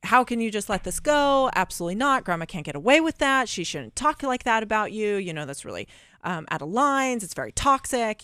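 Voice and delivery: a woman reenacting her sister's outrage at grandma's words; retold indignant sister. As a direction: push back the way the angry sister did. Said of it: "she fought me. Like, she was so".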